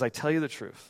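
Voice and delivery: soft, measured scripture reading; slow reading. Shown as a demonstration. Preacher rereads the verse to the congregation, soft and measured. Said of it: "Let me read that again".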